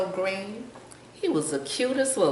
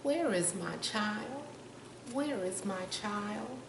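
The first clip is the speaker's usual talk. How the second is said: slow, softer, higher calling; distant mama bird crying out; faint cry; 4 semitones higher, 7 dB quieter than usual. A narrator's reading. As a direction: call out faintly in worry. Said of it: "he heard a faint cry".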